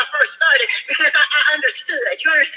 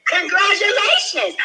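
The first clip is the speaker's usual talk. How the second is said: slow, drawn-out, higher congratulations; retold congratulations, drawn out and pitched up; announced congratulations; 4 semitones higher, slower than usual. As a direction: stretch out the good news like a caller announcing it. Retold caller announcing loan approval.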